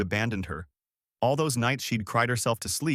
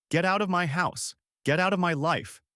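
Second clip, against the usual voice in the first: raised, higher angry command; angry order; 8 semitones higher than usual. Acted. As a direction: banish her, voice up high. Son orders mother out.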